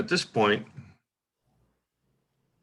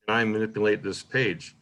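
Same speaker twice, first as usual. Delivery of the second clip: slowed by the question mark. Shown as a demonstration. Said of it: "Then you see the question mark".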